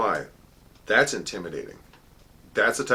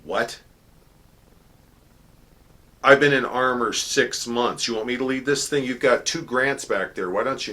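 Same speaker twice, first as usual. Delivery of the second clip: shocked disbelief; 4 semitones higher, 5 dB louder than usual. Retold or imitated. Shocked at being picked.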